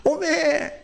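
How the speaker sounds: 전라도 사투리 감탄; Honam dialect. Shown as a demonstration. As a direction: exclaim like a Jeolla grandma. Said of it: "한다면서요".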